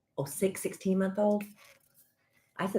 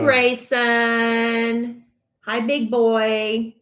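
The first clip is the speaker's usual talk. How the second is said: put-on 1 baby talk; 5 semitones higher, 6 dB louder, much slower than usual. Greeting a little nephew.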